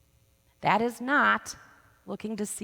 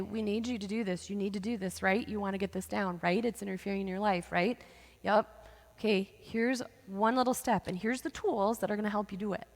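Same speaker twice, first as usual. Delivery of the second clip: gentle. Retold or imitated. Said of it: "we do it very gently".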